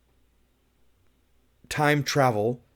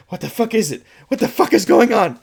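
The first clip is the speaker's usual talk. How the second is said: imitating Sarah; 7 semitones higher, 6 dB louder than usual. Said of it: "she's like".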